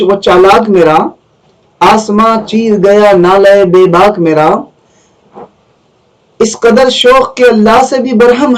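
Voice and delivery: measured Urdu verse recital with pauses between lines; poetry recitation. Acted. Teacher reading Iqbal's stanzas to students, poetry recitation. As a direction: recite each half-line as a unit.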